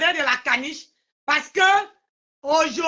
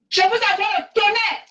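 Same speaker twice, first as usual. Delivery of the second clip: malédiction déclamée; 5 semitones higher than usual. Acted. Malédiction théâtrale répétée.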